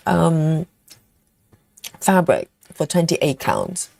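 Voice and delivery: talking while eating chocolate; chewing between words; mouth full. Real, not acted. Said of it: "I'll try not to talk when I'm eating".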